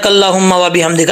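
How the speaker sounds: कल्लाहुम्मा rushed fast without the long ला; wrong reading. Shown as a demonstration. Teacher mimics the common rushed mistake. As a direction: rattle off कल्लाहुम्मा व बिहम्दिका quickly. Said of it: "ऐसा नहीं पढ़ना".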